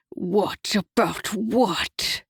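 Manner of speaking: mock her question, slowly; sneering devil. A narrator's reading. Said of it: "he sneered".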